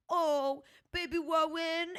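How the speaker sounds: put-on high, sweet baby talk to a sick partner. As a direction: coo it like talking to a baby. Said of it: "he used a baby voice on me".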